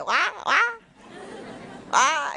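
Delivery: a light high imitation of her fiance's sounds; imitating fiance. Mocking how her Jamaican fiance talks, lightly imitated. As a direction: mimic his way of talking, lightly. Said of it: "That's how he talks".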